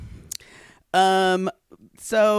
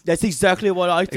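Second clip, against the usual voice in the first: mock Australian accent; 2 semitones higher, 3 dB louder than usual. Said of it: "that's an Australian accent".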